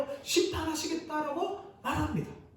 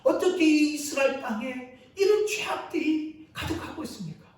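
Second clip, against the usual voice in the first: rising into a higher, louder, half-shouted complaint; prophet's indignant protest, pitched high and loud; protesting to God; 6 semitones higher, 4 dB louder than usual. Acted. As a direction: argue with God, building to a shout. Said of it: "하나님께 이렇게 따집니다".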